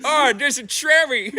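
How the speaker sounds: high, slow Asian accent impression; a playful Asian accent, drawn out. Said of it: "It's kinda like saying it in an Asian accent".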